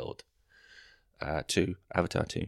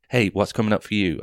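mock game show host; 7 dB louder than usual. Host addressing audience in bit.

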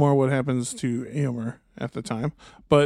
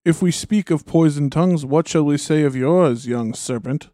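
scornful Saruman. Acted. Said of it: "said Saruman".

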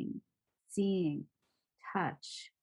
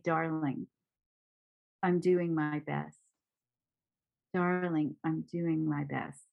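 self-soothing tender; 3 semitones lower than usual. Shown as a demonstration. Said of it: "touch my heart and say".

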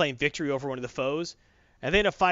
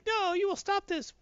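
mock heroic command. Avengers voiced in comic retelling.

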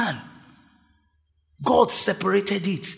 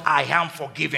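shouted declaration; 2 semitones lower than usual. Shown as a demonstration. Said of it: "Lift up your two hands and shout".

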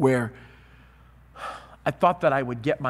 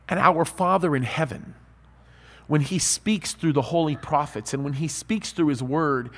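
normal talking voice

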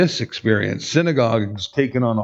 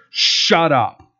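curt, harsh command; harsh rebuke. Acted. Preacher voicing Jesus silencing the demon, harsh. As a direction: cut them off with a stern rebuke. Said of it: "his statement was that harsh".

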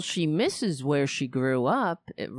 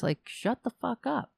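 ordinary delivery

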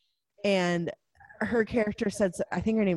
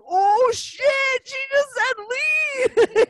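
shocked realization; 7 dB louder, much slower than usual. Retold or imitated. Viewer's shocked realization at reveal.

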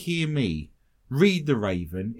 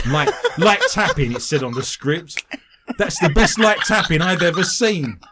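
laughing; 2 semitones higher, 5 dB louder than usual. Real, not acted. Teasing co-host about her acting.

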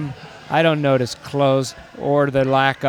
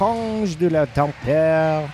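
fake French; slower than usual. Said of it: "fake French garbage".

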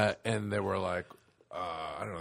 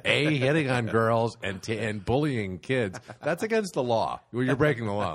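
raised-voice principal telling off grown men; scolding principal; 3 semitones higher than usual. Acted. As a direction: lay down the law, punching the words. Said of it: "I'm the principal".

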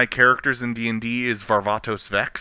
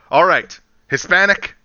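louder, laughing through the list; 4 semitones higher, 4 dB louder than usual. Retold or imitated. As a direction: giggle out the casting list. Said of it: "as one of the trailers pointed out".

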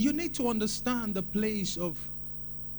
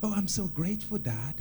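put-on grateful child prayer; 4 semitones lower, 5 dB quieter than usual. Shown as a demonstration. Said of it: "like a New Testament worshiper".

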